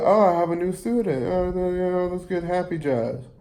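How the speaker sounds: chirpy high teacher impression, quick; perky teacher. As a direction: play the overeager band teacher. Teacher voiced in the story.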